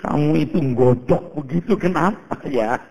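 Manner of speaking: slow, amused voice of God; God gently teasing him with a laugh; slow, chuckling divine reproach. Retold or imitated. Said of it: "kata Tuhan".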